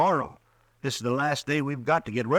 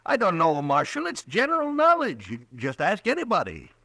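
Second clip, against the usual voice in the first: jittery; 5 semitones higher than usual. Acted. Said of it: "as jittery as you are".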